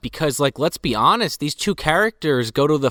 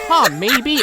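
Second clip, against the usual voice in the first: mock Kyle; 11 semitones higher, 4 dB louder than usual. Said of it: "He goes".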